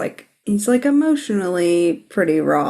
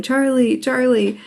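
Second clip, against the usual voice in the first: calling out; 5 semitones higher than usual. Retold or imitated. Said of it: "he's yelling".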